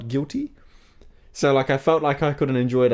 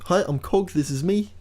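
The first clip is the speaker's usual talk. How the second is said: put-on New Zealand accent; 5 semitones higher than usual. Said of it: "hear Jordan's best New Zealand accent".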